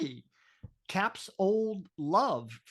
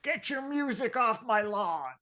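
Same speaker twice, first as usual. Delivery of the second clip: mock old grouch; 3 semitones higher, 5 dB louder than usual. Mocking host as old grouch.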